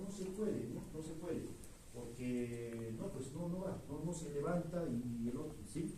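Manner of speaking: soft and hesitant, circling the point with fillers; rambling aphasic patient. Retold or imitated. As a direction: play a patient talking around the words he can't find, quietly. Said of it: "¿qué te dice?".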